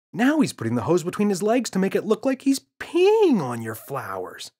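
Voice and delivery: mild shout. Acted. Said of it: "shouted James".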